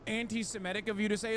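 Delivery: a hammed-up offended scold; mocking the offended crowd; mock prissy critic. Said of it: "everybody goes".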